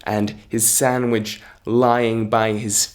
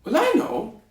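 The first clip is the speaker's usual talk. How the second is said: tailor voice; 11 semitones higher than usual. Acted. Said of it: "the tailor said".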